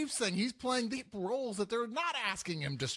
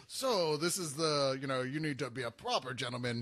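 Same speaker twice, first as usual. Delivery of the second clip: measured, pitched-down tutor voice; proper gentleman; 6 semitones lower than usual. Acted. Coaching the actor for Shakespeare, low gentleman voice. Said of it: "They'll put him in Taming of the Shrew".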